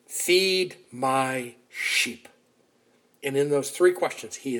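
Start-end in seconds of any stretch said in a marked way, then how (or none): 0.1-2.3 tender command. Retold or imitated. Jesus restores Peter gently.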